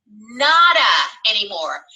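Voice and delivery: emphatic shout. Real, not acted. Defiant rejection of critics.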